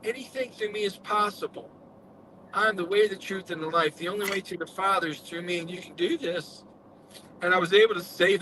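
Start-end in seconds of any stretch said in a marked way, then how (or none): 0.0-6.6 softer, calm, hushed divine voice in his ear; lightly voiced gentle reassurance from God; quiet comforting presence speaking into the left ear; voice of Jesus. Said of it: "it says".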